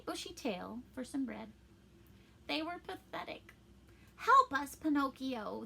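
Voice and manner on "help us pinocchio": high, loud plea for help; begging. A narrator's reading. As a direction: beg pitifully, starting high and loud. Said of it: "they begged".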